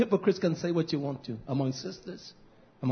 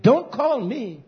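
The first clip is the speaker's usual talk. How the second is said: curt dismissal; 4 semitones higher, 4 dB louder, slower than usual. Retold or imitated. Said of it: "I said".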